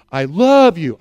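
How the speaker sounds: "love" punched loud and stretched; stress on LOVE. Shown as a demonstration. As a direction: hit the word "love" hard. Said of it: "I use different emphasis on different words".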